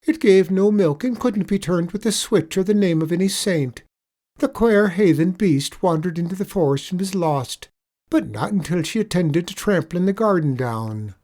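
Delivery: sly leprechaun. Acted. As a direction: lay the sorrow on thick.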